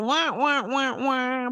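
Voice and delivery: mock sad-trombone wah-wah; drawn-out mock fail sound effect. Shown as a demonstration. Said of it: "I was actually looking for".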